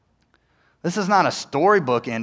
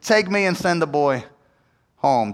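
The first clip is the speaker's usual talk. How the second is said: insistent plea. Retold or imitated. Judah's retold plea to Joseph.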